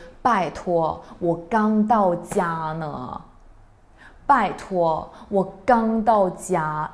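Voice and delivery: mildly annoyed, slow; a hint of irritation. Shown as a demonstration. Child answering mom's scolding, mildly annoyed. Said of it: "As you can see from my intonation".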